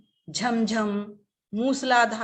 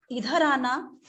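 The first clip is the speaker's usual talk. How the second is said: loving call; slower than usual. Shown as a demonstration. Mother calls her son lovingly, tender coaxing. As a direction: call a child over tenderly, lifting the last word. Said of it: "बहुत ही प्यार से बोलेगी".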